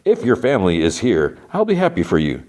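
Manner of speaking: a hint of someone questioning a plan; Robert House. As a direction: deliver as a mildly acted quote, pitch lifting. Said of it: "Robert House's voice is like".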